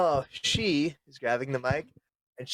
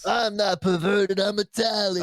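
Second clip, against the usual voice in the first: mock excuse; 6 semitones higher than usual.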